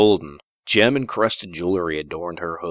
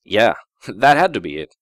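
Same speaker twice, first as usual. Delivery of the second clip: relieved laugh; 3 semitones higher, 4 dB louder than usual. Acted. Relieved self-assurance with laugh.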